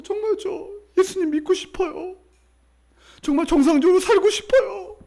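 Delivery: very high, wailing plea; imitated tearful pleading. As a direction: act out a distraught woman begging. Voices distraught woman pleading.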